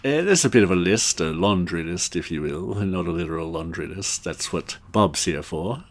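lightly voiced British boss; hesitant English politeness; a hint of fussy official; Rowan Atkinson. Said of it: "who can do the best Rowan Atkinson impersonation".

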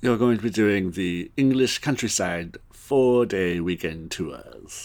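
lightly voiced English boss; measured British announcement, slowing at the end; Hugh Grant. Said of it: "trying to do more of a Hugh Grant".

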